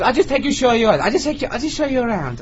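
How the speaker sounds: high-pitched mimicked persuasion; imitated wheedling. Dancer persuading reluctant customer upstairs, high wheedling. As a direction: coax in a high, put-on voice.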